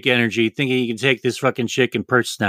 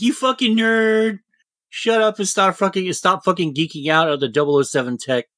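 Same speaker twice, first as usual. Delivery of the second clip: mock scolding chief; 6 semitones higher than usual. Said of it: "he fucking scolds him like".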